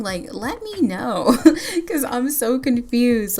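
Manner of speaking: slow, laughing plea to viewers; laughing confusion. Real, not acted. Player asking viewers to comment, laughing and confused. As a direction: laugh it off, bewildered.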